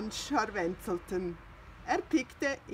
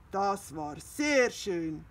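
admiring; 4 dB louder, slower than usual. Acted. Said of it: "sagte Pettersson".

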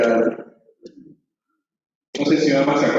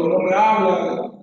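slow, higher tearful whine; drawn-out imitation whimper; mock crying; 5 semitones higher, slower than usual. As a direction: lightly mimic a child's complaint.

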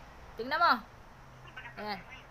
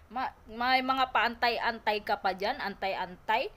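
mock drawl; 4 semitones lower, slower than usual. Mocking critic's anti-vax pronunciation.

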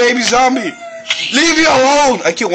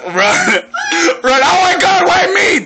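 laughing scream to run; panicked laughing yell; 6 semitones higher, much slower than usual. Real, not acted. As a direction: yell run while cracking up. Fleeing zombies in game.

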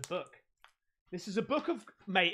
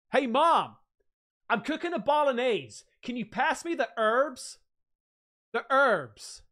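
loud, higher-pitched put-on American; mock American accent; 5 semitones higher, 6 dB louder than usual. American kid cooking asks Mom for herbs, American accent. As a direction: play an American calling out, "herbs" without the h. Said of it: "If you're American".

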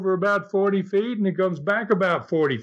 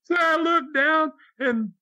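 laughing; 12 semitones higher than usual. Real, not acted. Laughing while retelling the shark pool.

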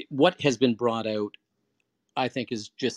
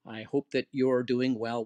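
pleasant voicemail. Shown as a demonstration. The speaker leaves a friend a pleasant voicemail, cheerful. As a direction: leave a friendly check-in message. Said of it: "whatever it is".

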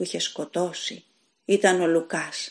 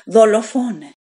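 shrieking the word even louder and higher; louder screaming accusation; 4 semitones higher, 9 dB louder than usual. A narrator's reading. Widow screams at Pedro, accusing louder still. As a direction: scream it again with full force. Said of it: "φώναξε τέλος η γυναίκα".

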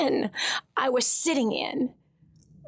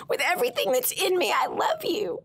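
whispered prayer. Real, not acted. Praying to the Lord after hearing his words: a whispered I love you. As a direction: whisper it as a private vow.

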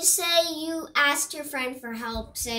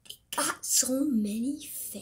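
mumbling; 5 dB quieter than usual. Real, not acted. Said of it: "When you talk like that, no one can hear you".

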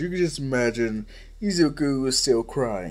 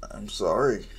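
whispered apology; 5 semitones lower than usual. Acted. Izuku apologizing to All Might.

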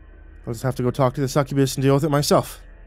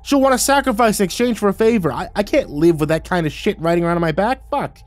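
high-pitched, distressed groan; pleading, whiny outburst; groaning protest; 9 semitones higher, 4 dB louder than usual. A narrator's reading. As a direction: wail the complaint, pitch way up. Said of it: "I groaned".

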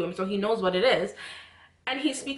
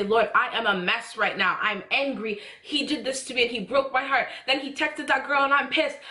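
higher-pitched, urgent outpouring to God; raw, honest prayer; 4 semitones higher than usual. Acted. Praying to God about betrayal and soul ties, raw and upset. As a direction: plead openly through anger and hurt. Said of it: "that was so real in that moment".

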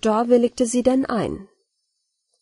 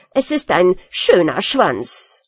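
slow, sulky insistence; sulking rat defending its tail, slow; grumpy insistence. Acted. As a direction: grumble it out stubbornly, slow. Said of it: "sehr mürrisch".

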